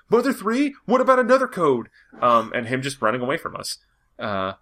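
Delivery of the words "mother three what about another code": mock eager fan. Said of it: "being like".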